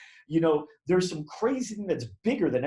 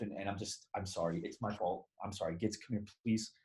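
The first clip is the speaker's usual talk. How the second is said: softer, quiet, a hint of tears in a sorry mother; mild tearful apology; 3 semitones lower, 6 dB quieter than usual. Grieving mother apologizing to stranger at DMV, softly tearful. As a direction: retell her broken apology gently, lightly voiced. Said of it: "like she's been crying all day".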